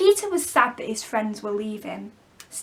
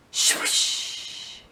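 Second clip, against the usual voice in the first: breathy swoosh; whooshing sound; 3 dB quieter than usual. Acted. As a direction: let the word fly past like wind. Flying out the window.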